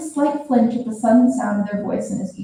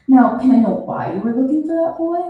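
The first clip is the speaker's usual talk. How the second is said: gentle; 4 semitones higher, 4 dB louder than usual. Acted. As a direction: ask it kindly, coaxing him open. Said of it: "Their tone was gentle".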